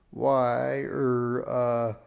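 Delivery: loud, halting stammer; nervous, flustered. A narrator's reading. Mister Beanpot caught out by a girl's challenge, nervous. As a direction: stall for words, thrown off balance. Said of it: "turn to look nervous".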